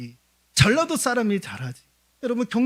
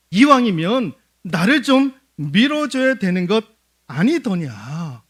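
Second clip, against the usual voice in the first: lightly voiced schemer, louder and pleading; persuasive Abimelech; 3 semitones higher, 5 dB louder than usual. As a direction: coax the townsmen, building to a push. Abimelech persuading his kinsmen.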